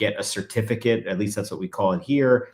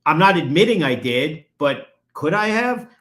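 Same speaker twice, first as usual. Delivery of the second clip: "could" punched hard, higher and louder, the whole phrase raised; stress on could; 5 semitones higher, 5 dB louder than usual. Shown as a demonstration. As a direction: lean on "could" so it sounds like a question, not an admission. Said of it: "which is could".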